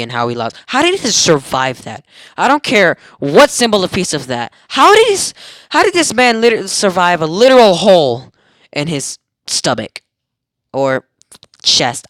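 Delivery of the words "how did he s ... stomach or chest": disbelieving, voice jumping up; how is that even possible; incredulous. Real, not acted. Disbelief at surviving a hole.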